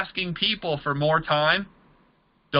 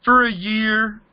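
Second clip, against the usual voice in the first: higher, mock whiny complaining voice, speeding up at the end; mock whiny prospect; 6 semitones higher, 4 dB louder, slower than usual. Mocking a struggling recruit to the audience, whiny and higher. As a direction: play the clueless recruit griping about no results. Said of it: "How long have you been doing that?".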